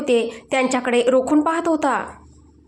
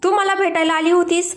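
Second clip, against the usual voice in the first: "तू मला भेटायला आली होतीस" as a higher, insistent question; emphatic question; 5 semitones higher than usual. A narrator's reading. Husband questioning wife, "तू मला भेटायला आली होतीस" said with emphasis. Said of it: "आपल्या शब्दांवर अधिक जोर देत".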